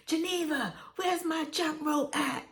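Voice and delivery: high Brooklyn hood call-out; Brooklyn hood dialect. Retold or imitated. Sister called on coming into the house, Brooklyn hood dialect. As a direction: mimic a Brooklyn hood girl calling her sister. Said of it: "that, that hood lingo".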